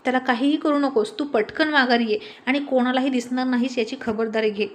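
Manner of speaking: panicked boss yelling down the phone; shouting. Acted. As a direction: bark the order to come back. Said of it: "Ahuja ओरडून म्हणाला".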